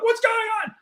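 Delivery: hammed-up confusion at the coincidence; baffled disbelief. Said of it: "And I'm like".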